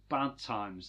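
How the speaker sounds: slow, drawn-out celebrity impression; lightly put-on presenter voice, stretched out; Justin Lee Collins. Quizzing co-host on celebrity news, celebrity impression. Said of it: "in my best Justin Lee Collins voice".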